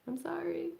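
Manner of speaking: whispered, rising to a high apology; sheepish whisper. Retold or imitated. To people asking what she's doing, a sheepish whispered apology. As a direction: imitate herself whispering a bashful apology. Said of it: "I'm like".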